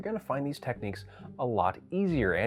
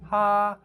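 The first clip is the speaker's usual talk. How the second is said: higher, loud held "ha"; open "ha" noise; 7 semitones higher, 6 dB louder than usual. Shown as a demonstration. Teacher demonstrating a noise before changing lip shape, held "ha". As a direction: sound a steady open "ha". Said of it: "If you're making a noise".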